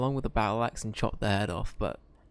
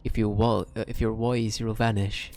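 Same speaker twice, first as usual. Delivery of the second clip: firm, louder in-character order; Ricky's warning; 5 dB louder than usual. Acted. Player speaking as own character to a spared enemy, stern warning. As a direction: send them off with a forceful warning. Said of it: "I think Ricky would be".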